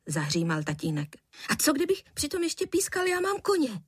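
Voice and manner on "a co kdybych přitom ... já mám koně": put-on high, cheeky kid voice; a boy teasing his cross father; mischievous boy. A narrator's reading. Son teasing his father at the table, high and cheeky.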